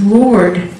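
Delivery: exasperated believer praying at the TV; exasperated prayer. Retold or imitated. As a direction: beg the Lord in disbelief. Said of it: "I said".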